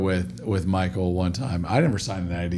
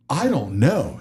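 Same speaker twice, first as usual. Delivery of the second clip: put-on Chicago accent; 3 semitones higher, slower than usual. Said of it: "He's Chicago accent".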